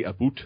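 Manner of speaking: "boot" with a long oo, for "about"; Canadian vowel. Retold or imitated. Guest imitates partner's Canadian "about", saying "boot" with oo. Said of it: "she says certain words".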